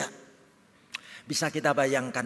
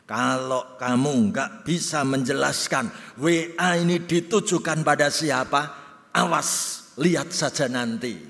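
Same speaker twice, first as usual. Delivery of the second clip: mild threat; 4 dB louder than usual. Retold or imitated. Jealous husband threatens.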